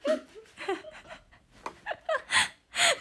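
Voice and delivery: shrieking high laugh, real; helpless high laughter fit; high burst of laughter. Real, not acted. (甲高い大笑い)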